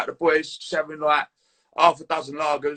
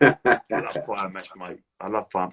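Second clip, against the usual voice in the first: deep slow relish; 9 semitones lower, slower than usual. Real, not acted. Raving about pie and mash.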